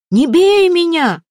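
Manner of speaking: high, loud, slow pleading cry; terrified wail. A narrator's reading. Кричит Мамалай, стоя на коленях перед копейщиком, в отчаянии. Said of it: "завопил он".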